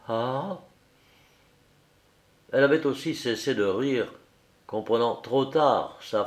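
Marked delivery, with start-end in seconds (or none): 0.1-0.6 simply. A narrator's reading. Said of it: "il prononça simplement".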